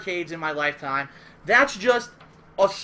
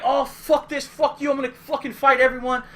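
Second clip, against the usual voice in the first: loud, higher angry outburst; flipping out; 5 semitones higher, 6 dB louder than usual. Retold or imitated. Duck Junior raging at the hecklers, angry outburst. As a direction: blow up at everyone. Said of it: "So he flips out".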